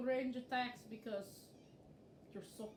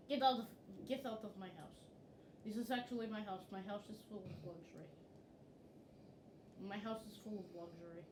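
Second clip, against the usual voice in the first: attempted Russian accent, low; low-pitched makeshift Russian accent; 3 semitones lower, 5 dB quieter, faster than usual. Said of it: "say luxury with a Russian accent".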